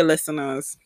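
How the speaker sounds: whispered aside; whispering. Real, not acted. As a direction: whisper it to the audience. Aside to listeners.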